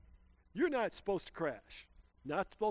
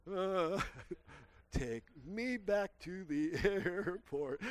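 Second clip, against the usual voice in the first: laughing plea; 2 semitones higher, much slower than usual. Retold or imitated. Shaken after the spin.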